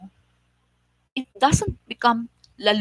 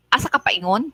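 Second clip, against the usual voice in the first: sing-song Tagalog; 5 semitones higher, faster than usual. Shown as a demonstration. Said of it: "The Tagalog say".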